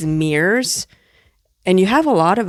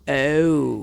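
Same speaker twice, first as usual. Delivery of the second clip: quiet realization; 6 semitones lower, 5 dB quieter than usual. Retold or imitated. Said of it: "look at within myself and go".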